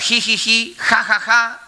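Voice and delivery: risa burlona fingida, algo aguda; risa imitada. Retold or imitated. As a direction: imita la risa fuera de lugar. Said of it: "que digas". (ji ji ji ja ja ja en tono de burla)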